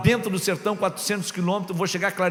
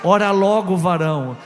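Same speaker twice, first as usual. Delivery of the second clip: repeated much louder, so it is clearly heard; 6 dB louder than usual. Retold or imitated. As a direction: say it again, forcefully, for the one who missed it.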